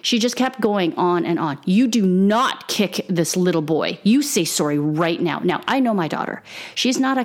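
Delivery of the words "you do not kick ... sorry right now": berating. Retold or imitated. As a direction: imitate a stern telling-off, word by word. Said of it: "She was still berating my child".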